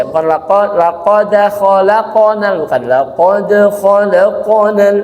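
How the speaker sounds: "laqad khalaqonal" with qaf leaning toward o; thick qaf reading. Shown as a demonstration. Teacher contrasting thick qaf readings for students, slow and careful. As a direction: round the qaf in "laqad" like "lako". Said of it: "bukan qa persis ya".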